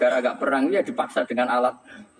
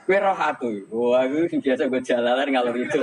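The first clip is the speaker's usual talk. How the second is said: boasting Umar; 3 semitones higher than usual. Retold or imitated. Umar boasting to Munkar Nakir, cocky and raised. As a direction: toss it off like a swaggering friend of the Prophet's kin.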